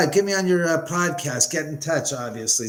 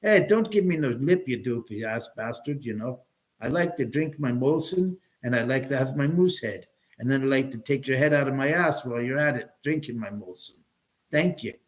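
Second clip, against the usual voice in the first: hammed-up Canadian hoser talk; Canadian accent. Telling off a hoser over a Molson, in a mock Canadian accent. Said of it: "you're doing a Canadian accent".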